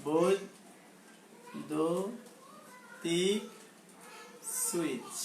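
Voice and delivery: very slow, soft, syllables spaced apart; slow dictation. Shown as a demonstration. Teacher dictating the next heading to students, slow dictation. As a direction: stretch বৈদ্যুতিক out and pause before switch.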